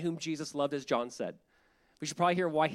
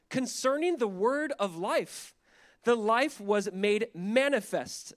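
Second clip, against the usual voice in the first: slow, measured verse reading; scripture reading; 3 semitones higher, slower than usual. Real, not acted. Pastor reads First John to the congregation, measured. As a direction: read it phrase by phrase, deliberately.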